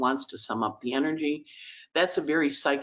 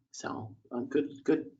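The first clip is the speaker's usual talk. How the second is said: choked up; 6 dB quieter, slower than usual. Real, not acted. Crying over kittens leaving.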